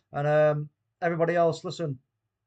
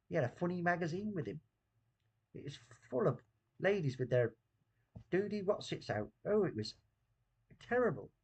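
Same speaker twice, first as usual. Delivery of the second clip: put-on Bristol accent; 3 semitones higher than usual. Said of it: "Talk, do the Bristol accent".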